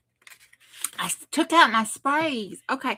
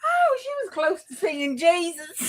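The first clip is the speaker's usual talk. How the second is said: laughing while talking; 7 semitones higher than usual. Real, not acted. Laughing at a funny story.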